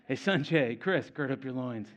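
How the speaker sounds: casual, deadpan call to buddies; offhand mock greeting and instruction; mock everyday talk. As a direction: pretend this is normal banter between friends. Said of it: "that's how we talk, right?".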